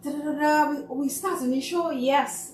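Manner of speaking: put-on rally nervous kids before the show; coaching the kids. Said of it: "I'm like".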